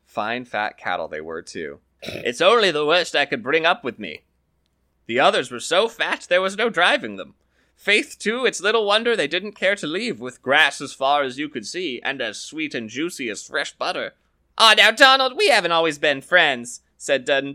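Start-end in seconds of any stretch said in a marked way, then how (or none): 2.0-14.1 lively higher voices for Donald and the farmer, trading lines; storyteller's character voices. Acted. Donald brags of the cattle. 14.6-16.8 lively higher voices for Donald and the farmer, trading lines; storyteller's character voices. Acted. Dudden wheedles.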